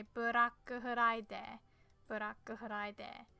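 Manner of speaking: Black Friday slowly, as ブラックフライデー; Japanese pronunciation. Shown as a demonstration. Teacher showing the Japanese way to say Black Friday. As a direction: sound out Black Friday as burakku furaidee. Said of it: "so we would just say".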